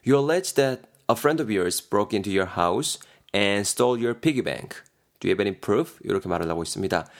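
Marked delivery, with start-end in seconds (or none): 0.1-6.0 아주 느리게 한 단어씩 또박또박 읽기; 학생들이 따라오게 천천히 읽어주기. Shown as a demonstration. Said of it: "예문 천천히 낭독". (예문을 아주 느리게 또박또박)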